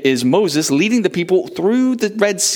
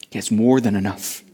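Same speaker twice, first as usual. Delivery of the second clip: reassuring answer; 5 semitones lower, 3 dB quieter than usual. Acted. Preacher answers the need, lower.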